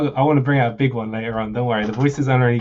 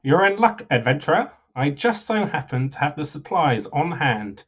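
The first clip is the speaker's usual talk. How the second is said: lightly voiced humble merchant, lilting; merchant character; 4 semitones higher, slower than usual. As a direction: play a modest salesman, slightly theatrical.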